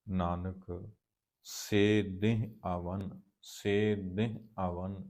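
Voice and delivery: measured, drawn-out chanting of gurbani lines; slow scripture recitation. Acted. Teacher recites the hymn slowly for the students. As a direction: recite each line slowly with reverence.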